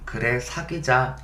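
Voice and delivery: soft, slow imitated whisper into his ear; softly recreate her whispered yes; retold whisper. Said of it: "그때 나한테 귓속말로".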